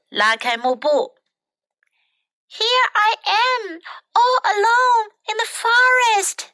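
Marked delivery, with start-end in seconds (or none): 2.5-6.5 pretty princess. A narrator's reading. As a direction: play a princess with a high, lilting voice. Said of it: "said the pretty princess".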